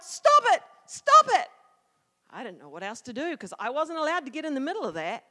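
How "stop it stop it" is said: high, loud desperate yell. Retold or imitated. Child yells at dogs attacking Mac, yelling. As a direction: yell it to break up a fight. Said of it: "I stood back and I yelled".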